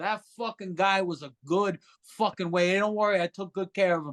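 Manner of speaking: put-on, fake New York accent. Speaker describes putting on an accent at work, put-on New York accent. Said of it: "I'll put on a New York accent".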